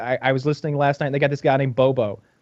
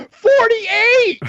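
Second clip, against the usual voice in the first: much higher, louder proud yell; proud shout as Bobo; 6 dB louder than usual. Retold or imitated. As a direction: blurt it out proudly. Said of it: "He's like".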